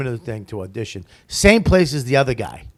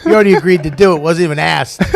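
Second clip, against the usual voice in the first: tough guy impression; 5 semitones higher, 10 dB louder than usual. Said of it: "he grabs the kid".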